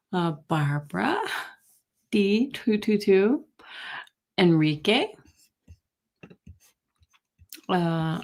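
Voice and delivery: talking around a cough drop; mouth full. Real, not acted. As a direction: lozenge in the mouth. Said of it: "I have a thing in my mouth for my cough".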